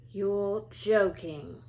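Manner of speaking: very slow, stunned disbelief; astonished friend hearing the news; Ron amazed. Acted. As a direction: drag it out in shock. Ron voiced in story.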